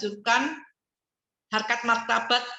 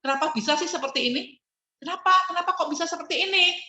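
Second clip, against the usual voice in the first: constructive anger; 7 semitones higher, faster than usual. Shown as a demonstration. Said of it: "marah yang membangun".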